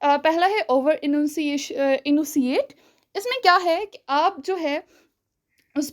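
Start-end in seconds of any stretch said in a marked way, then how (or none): 0.7-2.8 "enunciate" slowly, every syllable exaggerated; over-enunciation. Shown as a demonstration. Teacher demonstrating over-enunciated syllables of "enunciate". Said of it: "ज़्यादा थोड़ा exaggerate कर जाओ".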